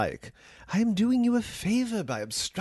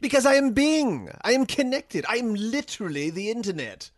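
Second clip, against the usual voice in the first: I am spoken high and grand, each word weighted; grand proclamation; 8 semitones higher than usual. Acted. AI boasting to its user, grand and high. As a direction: proclaim it like a god.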